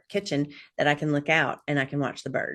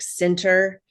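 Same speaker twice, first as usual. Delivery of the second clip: calming mantra; slower than usual. Retold or imitated. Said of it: "It's like".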